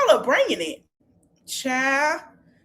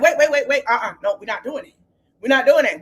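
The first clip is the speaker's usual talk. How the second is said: loud rushed wait wait; mock alarmed stop; 4 dB louder, faster than usual. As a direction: cut them off, alarmed. Quad stopping the argument.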